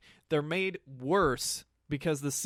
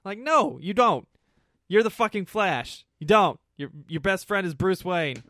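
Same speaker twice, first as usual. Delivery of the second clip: rising, louder insistence; emphatic rant; 3 semitones higher, 5 dB louder than usual. Real, not acted. Arguing with the movie, loud and insistent. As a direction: push back hard on the plot.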